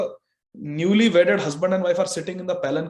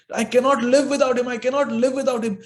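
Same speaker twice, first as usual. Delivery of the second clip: anguished lament; 4 semitones higher than usual. Acted. Bride repeating her lament.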